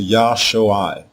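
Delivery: "Yah Shoai" said slowly as yah-sho-EYE; Hebrew noun pronunciation. Shown as a demonstration. Teacher showing how to say the noun salvation, careful pronunciation. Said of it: "This is how you say".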